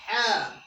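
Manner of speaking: ha from the middle of the throat, voiced and pushed; teacher shows the class the throat sound ha; model ha. Shown as a demonstration. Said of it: "and say".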